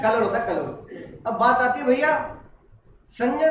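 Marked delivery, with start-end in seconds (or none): 0.0-0.7 कलोड़ with l for r, laughing; kid's कलोड़ instead of करोड़; childish pron. Shown as a demonstration. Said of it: "ऐसे करोड़ नहीं होता". (बच्चे वाला "कलोड़")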